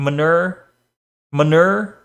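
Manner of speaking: manure said as muh-NUR, rising; unsure "manure" as muh-NUR; rhymed with mature. Shown as a demonstration. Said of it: "Oh, like mature".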